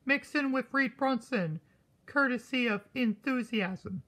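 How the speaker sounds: hushed unvoiced whisper. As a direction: whisper it like a dark secret. Sudden hushed dread.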